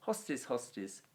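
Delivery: brisk run-through of a Latin declension; quick recitation. Shown as a demonstration. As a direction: rattle through the noun forms briskly. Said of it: "we'll whack through it singular quickly".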